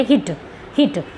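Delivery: हिट with a quick short i; हिट said fast with a short i. Shown as a demonstration. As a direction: clip the vowel in हिट. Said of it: "हम इसको rapidly बोल रहे हैं".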